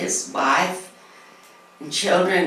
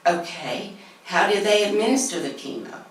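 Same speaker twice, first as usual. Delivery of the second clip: asking through a nervous laugh; a quick, anxious laughing question; 5 semitones higher than usual. Retold or imitated. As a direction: laugh it out nervously, a bit fast. Nervous question about chemo.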